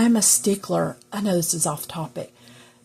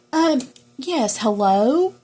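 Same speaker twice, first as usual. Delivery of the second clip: high, sweet polite phone voice; mama's phone voice; 6 semitones higher, 5 dB louder, slower than usual. Retold or imitated. Mama answering a caller mid-fuss, sugary phone voice. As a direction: switch to a prim, proper phone manner. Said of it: "a phone voice".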